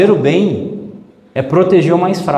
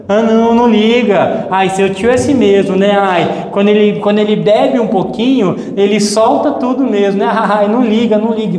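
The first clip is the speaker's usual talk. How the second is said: mock dismissive parent; 4 semitones higher than usual. Passive parent brushing it off.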